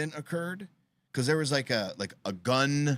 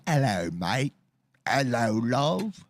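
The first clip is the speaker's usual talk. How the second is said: mock Aussie hello; slower than usual. Imitating the Aussie twins.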